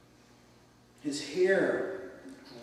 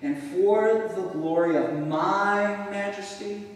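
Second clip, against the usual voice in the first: louder, slow and higher, proud king; boastful king; 5 semitones higher, 7 dB louder, slower than usual. Acted. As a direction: boom it out like a king admiring his empire. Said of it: "Notice the emphasis".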